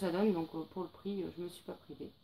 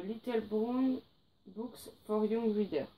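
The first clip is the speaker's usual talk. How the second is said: French-accented English; 2 semitones higher, slower than usual. Real, not acted. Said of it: "mon accent anglais pitoyable".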